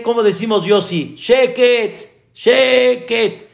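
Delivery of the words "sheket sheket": higher, sharp hushing call; shushing. Retold or imitated. Parent hushing restless children, sharp sheket. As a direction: tell the noisy kids to hush. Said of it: "En hebreo se dice".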